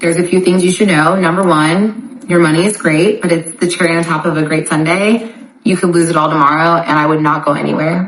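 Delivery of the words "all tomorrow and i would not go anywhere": ordinary talk, nothing marked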